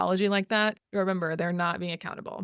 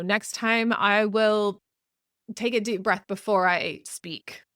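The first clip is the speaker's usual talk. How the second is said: slow, firm Next time; deliberate promise; 3 dB louder, slower than usual. Shown as a demonstration. Modelling a promise to a partner, slow and firm. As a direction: lean into time, slow and measured. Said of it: "saying what you'll do differently means".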